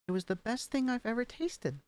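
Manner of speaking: "thing" lifted high, then falling off through "tasted"; excited about food, voice rising then settling; expressive intonation. Shown as a demonstration. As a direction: lift the line, then let it fall. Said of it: "Something like that".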